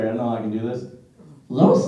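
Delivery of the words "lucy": falsetto shriek. Retold or imitated. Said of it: "this is a little scary".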